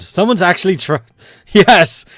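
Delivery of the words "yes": delighted yes. Real, not acted. Delighted someone backs New England.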